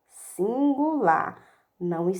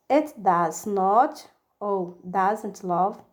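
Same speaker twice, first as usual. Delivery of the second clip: slow drill; 3 semitones lower, much slower than usual. Shown as a demonstration.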